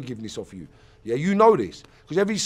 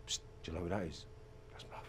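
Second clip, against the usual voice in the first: hushed, much softer gossip; imitating a whisper; 9 semitones lower, 19 dB quieter, much faster than usual. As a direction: lean in and murmur it like passers-by. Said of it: "people said".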